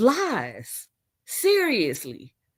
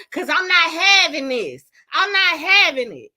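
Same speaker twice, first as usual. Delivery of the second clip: mock ghetto girlfriend voice, raised; a hint of a sassy girlfriend going off; imitating Callie; 4 semitones higher than usual. Mimicking Callie scolding her man, sassy and raised. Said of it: "That's exactly how Callie sounds".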